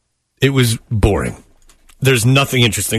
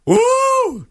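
mock exhale. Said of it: "with his deep breathing".

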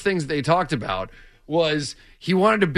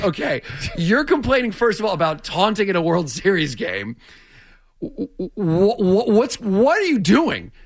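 incredulous retort; 4 semitones higher than usual. Retold or imitated. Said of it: "And to that I said".

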